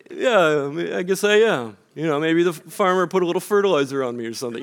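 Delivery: lightly voiced, jolly, self-deprecating quip; hint of folksy Minnesotan good cheer, fast at the end; jolly Minnesotan joke. Joking back to the pastor in mild jolly Minnesotan style. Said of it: "sort of in our jolly".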